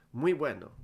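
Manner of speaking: put-on light Spanish accent, friendly hello; Spanish-flavoured footballer. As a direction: greet him like a cheerful Spanish star. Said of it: "We don't know why he speaks like that".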